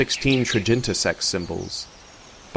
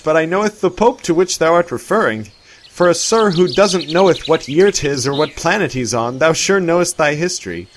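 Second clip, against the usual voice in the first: higher, louder amused voice; a hint of a jovial old-fashioned man; lightly voiced Arthur; 9 semitones higher, 8 dB louder than usual. A narrator's reading. Arthur's voice held.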